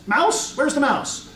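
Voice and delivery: high, startled questions; startled squeak. A narrator's reading. Startled child calls out for a mouse, squeaking. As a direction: squeak it out in a small panic.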